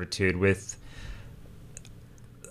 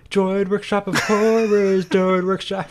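dramatic title voice; 7 semitones higher than usual. Pretend.

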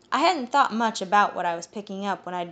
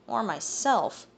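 slow, grumbled aside; slow, sulky grumble; grumbling; 3 semitones higher, slower than usual. Acted. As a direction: grumble it under your breath. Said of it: "he grumbled".

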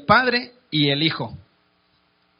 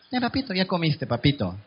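sweet coaxing wife; 4 dB quieter than usual. Acted. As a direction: coax him in gently, like a doting wife. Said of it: "Y la mujer podría decir".

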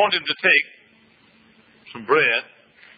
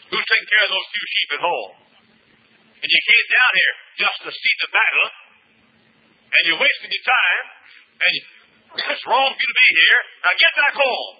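put-on scolding older brother; 3 semitones higher than usual. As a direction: build into a sharp order to go home. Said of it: "David's oldest brother came and said".

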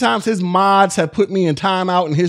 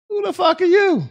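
angry outburst; 9 semitones higher than usual. Real, not acted. Streamer confronting rude chatter.

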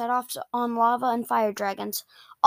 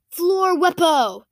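raised, slow pronouncement; name the spell slowly and firmly; spell announcement; 6 semitones higher, 5 dB louder, slower than usual. Acted. Boy shows friends a new spell, slow raised announcement.

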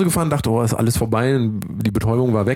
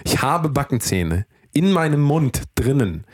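slow, spelling it out word by word; slow and deliberate; 2 semitones higher, slower than usual. Shown as a demonstration. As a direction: say it slowly, like to a slow listener. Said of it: "jetzt lass mich doch mal einmal ausreden".

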